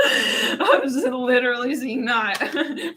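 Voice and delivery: slow, laughing through the words; giggling as she sees it. Real, not acted. Laughing at her vision.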